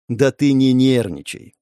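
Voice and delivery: slow, soothing words; calm a nervous companion, unhurried; gently placating, drawn out; reassuring. Acted.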